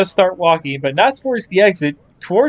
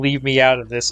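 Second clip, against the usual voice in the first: normal talking voice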